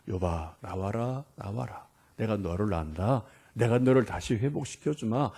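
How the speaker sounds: soft tender God calling Job; soft loving call. Pretend. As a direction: call him out gently, almost hushed. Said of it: "좀 부드러운 소리로 나 좀 불러주세요".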